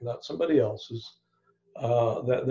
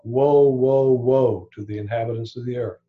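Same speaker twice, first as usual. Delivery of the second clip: "Woe, woe" called out loud, then settling; a proclaimed warning cry; calling out woe; 4 dB louder than usual. Retold or imitated. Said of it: "An eagle flying through the air calls out".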